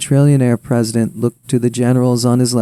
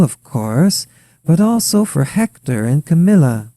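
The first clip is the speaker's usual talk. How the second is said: Ukrainian wife; 4 semitones higher, 6 dB louder than usual. A narrator's reading. Wife asking husband for seats for her children, higher accented voice.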